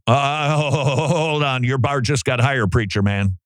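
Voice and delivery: amused mock warning; mock alarm. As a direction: tease the preacher through a laugh. Mocking reaction to the flare.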